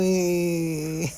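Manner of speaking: a long, drawn-out blank "what?"; playing dumb. Answering someone who asks what's wrong, in a drawn-out clueless way. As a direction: stretch it out as if clueless. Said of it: "أقول له".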